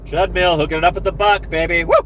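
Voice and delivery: high-pitched hyped celebration ending in a whoop; excited cheer. Real, not acted. Streamer thanking Treadmill for hooking it up, excited cheer. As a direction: hype up the win, pitched high.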